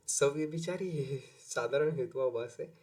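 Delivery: a real laugh breaking into the term; giggling through the definition; teacher cracking up mid-explanation. Real, not acted. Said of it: "अब मेरे को हंसी आ रही है".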